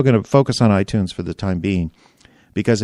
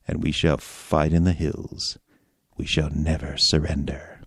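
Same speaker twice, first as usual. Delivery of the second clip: low romantic voice; 4 semitones lower than usual. Retold or imitated. Podcaster reads Churchill in a mildly low romantic voice. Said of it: "read in this voice".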